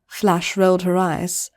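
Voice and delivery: usual speaking voice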